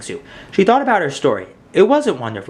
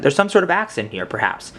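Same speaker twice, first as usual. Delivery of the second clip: fake English accent. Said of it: "she said in a fake English accent".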